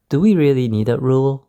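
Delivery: "Do we really need that rule?" asked with rising intonation; rising question intonation. Shown as a demonstration. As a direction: demonstrate a questioning tune on "rule". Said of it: "so I used the rising intonation".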